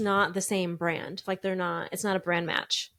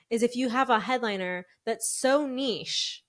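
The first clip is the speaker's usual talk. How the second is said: Wisconsin accent. Real, not acted. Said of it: "Why am I talking like this?".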